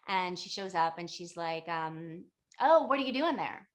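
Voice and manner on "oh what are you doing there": higher, louder opening "oh", lightly acted; curious old hag. Old hag surprising a student in the forest, curious. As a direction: pipe up nosily, lightly imitating.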